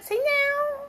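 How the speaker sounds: high sing-song coaxing for the cat. Real, not acted. Owner coaxing her cat to say goodnight, high sing-song. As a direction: coax the kitty sweetly, way up high.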